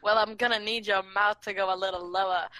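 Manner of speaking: odd, put-on British-like accent; weird accent. Roleplaying the request to a guy, weird British-like accent. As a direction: play it in a wobbly mock British accent. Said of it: "a weird accent from me".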